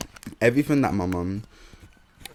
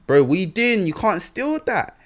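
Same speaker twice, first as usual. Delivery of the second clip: higher, louder alarmed call to his friend; telling his mate off in a shop, higher and alarmed; panicked call; 9 semitones higher, 5 dB louder than usual. Retold or imitated. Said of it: "And then I'm like".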